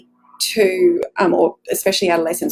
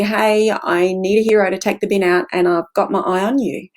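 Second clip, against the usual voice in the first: playful. Shown as a demonstration. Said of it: "It's playful".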